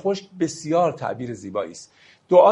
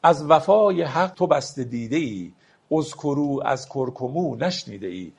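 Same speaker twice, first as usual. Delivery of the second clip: slow, measured reading of a Persian verse; poetry recitation; slower than usual. Acted. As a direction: lay out each word of the couplet slowly. (دکلمهٔ آرام شعر)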